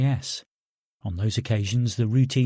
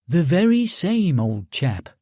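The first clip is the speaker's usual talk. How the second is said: mock English accent; 3 semitones higher than usual. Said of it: "when you do an English accent".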